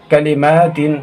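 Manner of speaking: कलिमातिन with short ka and long maa; correct vowel length. Shown as a demonstration. Teacher modelling the word for pupils, कलिमातिन with short first vowel. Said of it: "कालिमातिन नहीं पढ़ेंगे".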